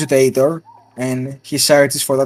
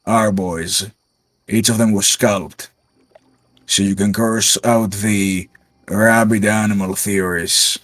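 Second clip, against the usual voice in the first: lightly voiced grizzled sergeant, slightly lowered; 3 semitones lower than usual. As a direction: report in like a weary-worded field veteran, understated. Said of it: "you hear a grizzled voice go".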